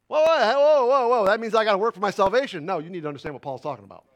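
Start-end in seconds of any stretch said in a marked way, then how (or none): 0.1-1.3 louder, hammed-up startled whoas; mock alarm. Preacher mocking a listener's alarm at "work out", loud. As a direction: pretend to panic at the verse.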